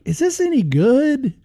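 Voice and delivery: high, incredulous mock-doubt; doubtful question. DJ at the record store, voicing his own high incredulous doubt. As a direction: raise an eyebrow at the record. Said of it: "you're like".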